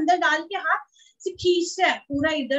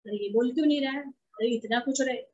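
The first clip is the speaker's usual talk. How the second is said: worried parent; 3 semitones lower, 5 dB quieter than usual. Retold or imitated. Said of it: "चिंता में जा रहा है".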